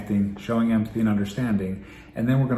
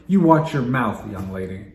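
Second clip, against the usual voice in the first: scolding parent; 4 dB louder than usual. Shown as a demonstration. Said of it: "rather than responding by saying".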